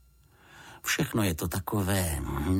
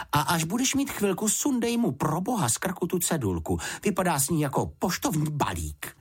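higher, fussing mother voice; 10 semitones higher than usual. Acted. Mrs Fousková calling after her husband about the label, higher. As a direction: call after them, fretting.

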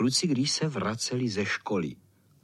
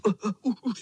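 higher, effortful grunts under a load; straining grunts; 9 semitones higher, much faster than usual. A narrator's reading. The bottom boy groans under four boys, strained grunts. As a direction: grunt as if the tower crushes you.

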